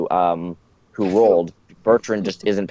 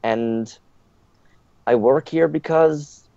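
higher-pitched put-on French accent; stereotypical French accent; 7 semitones higher than usual. Maid introducing herself to the questioner, stereotypical French accent. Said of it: "she speaks in a, a bit of an accent".

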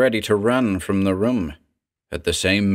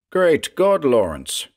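crying out; 7 semitones higher than usual. A narrator's reading. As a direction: burst out in alarm. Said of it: "cried Buttrick".

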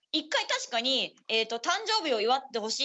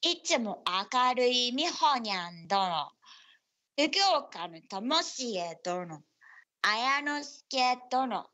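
slow name reading; much slower than usual. Acted. Reads out listener names slowly.

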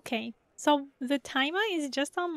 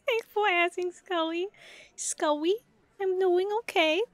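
uwu voice; 2 semitones higher than usual. Pretend. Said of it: "if I talk in a higher pitch".

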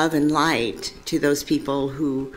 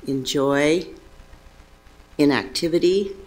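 measured prayer reading with long pauses; devotional reading. Acted. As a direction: read it as a prayer, phrase by phrase, letting each rest. Reads a devotional meditation aloud.

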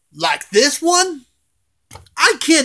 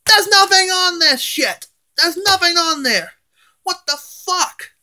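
higher, exasperated rant at the fake toy; pissed-off outburst; 7 semitones higher than usual. Real, not acted. Angry collector ranting about a fake Shadow Freddy, exasperated outburst. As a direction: let the frustration spill over. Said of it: "I am so pissed right now".

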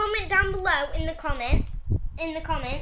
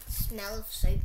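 words around candy; talking while chewing candy; 2 semitones lower, 5 dB quieter than usual. Real, not acted. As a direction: mouth partly full. Seen 2: Left girl, likely the speaker, holds red candy at her mouth, biting.

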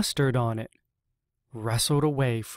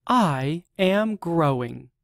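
proud; 3 semitones higher than usual. Acted. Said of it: "said Seed proudly".

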